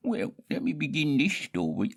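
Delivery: high whispered storytelling. Acted. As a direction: whisper the opening like a tale.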